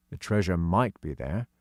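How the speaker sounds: usual speaking voice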